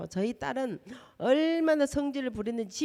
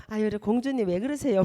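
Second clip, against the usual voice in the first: coaxing daughter; 4 dB louder than usual. Retold or imitated. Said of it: "막 이러는 거야".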